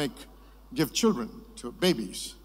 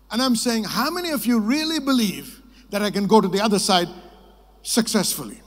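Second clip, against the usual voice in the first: showman's challenge; 5 semitones higher, 7 dB louder than usual. Retold or imitated. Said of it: "He said".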